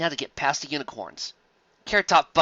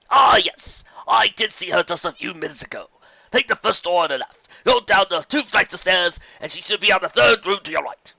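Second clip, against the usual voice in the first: helpful tour guide pony; 5 semitones higher, 5 dB louder than usual. Acted. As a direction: give directions like a kindly guide. Tour guide gives directions.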